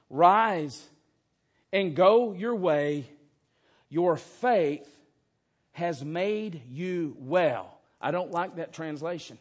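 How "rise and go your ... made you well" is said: loud, slow command, then easing down; commanding healer's voice; Jesus' command. Acted. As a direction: proclaim it with authority.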